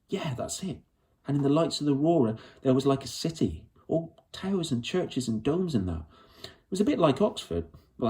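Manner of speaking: Lyra pouring out her story in a rush, stubborn; lightly voiced young girl. Lyra describing the city.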